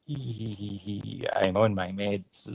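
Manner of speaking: hammed-up giddy medicated giggle; mock giggling patient. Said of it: "I'll be like".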